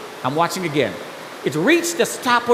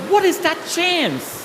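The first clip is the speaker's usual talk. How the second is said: high, slow, wondering question; astonished high-pitched musing; amazed disbelief; 9 semitones higher, slower than usual. Retold or imitated. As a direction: marvel to yourself, drawn out. Marvelling to himself at the train.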